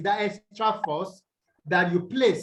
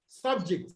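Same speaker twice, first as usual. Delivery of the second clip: subject, first syllable SUB stressed; SUB-ject as a noun, weight up front; 4 dB quieter than usual. Shown as a demonstration. English teacher gives the class an example word, first-syllable stress. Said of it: "stressed on the first syllable".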